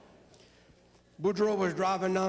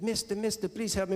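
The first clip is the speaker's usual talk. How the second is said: little frog voice; 5 semitones higher than usual. Acted. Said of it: "And the frog says".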